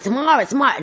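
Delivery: high, singsong name call; imitated calling-out; mock shout. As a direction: call out for your sister, not full force. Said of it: "whilst I'm shouting out Tamara".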